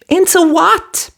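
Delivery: high brisk fairy voice; quick and businesslike; fiery fairy. A narrator's reading. Fiery fairy asking Cinderella for mice, brisk.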